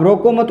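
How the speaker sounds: no break between रोको and मत; joined रोको मत. Shown as a demonstration. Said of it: "को एक साथ पढ़ा". (रोको मत एक साथ)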